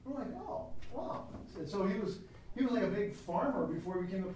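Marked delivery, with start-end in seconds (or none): 0.3-1.3 mock amazement. His own reaction, retold.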